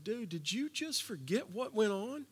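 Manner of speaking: a lightly voiced disappointed God; mock scolding God. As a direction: play a belittling, exasperated boss. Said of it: "He didn't tap him on the shoulder and said".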